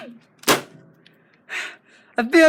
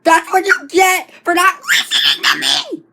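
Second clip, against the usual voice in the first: gloating shout; 2 semitones higher than usual. Acted. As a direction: crow it over him. Gloating over knocked out Mario.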